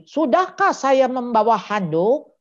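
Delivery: deliberate self-check question, drawn out; reading a sign aloud. Acted. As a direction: declaim it slowly like a big written reminder. Reading aloud an imagined big sign.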